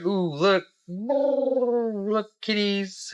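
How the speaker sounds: high, cooing mock peddler; peddler's sales coo. Peddler to the kids, high-pitched luring coo.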